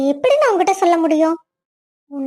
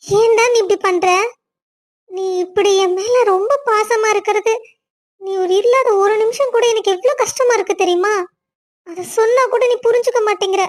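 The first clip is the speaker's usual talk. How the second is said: crying; 4 semitones higher than usual. Acted. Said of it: "ஏ அழுமூஞ்சி, முதல்ல அழுவாச்ச நிறுத்து".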